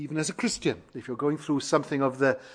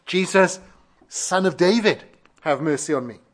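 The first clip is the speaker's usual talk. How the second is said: crying out; 2 semitones higher, 4 dB louder than usual. Retold or imitated. Preacher retells blind beggar calling Jesus, crying out. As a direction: lightly imitate the beggar calling out. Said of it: "he cried out".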